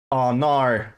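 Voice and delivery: imitating the bot's slow, put-on British accent; slow mock-British read of the bot's line. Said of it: "he just slips into British accent".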